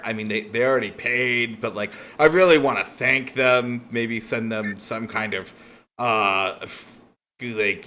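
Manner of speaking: a henchman babbling on about thanking the client; thug Tom. Acted. Tom keeps rambling in character.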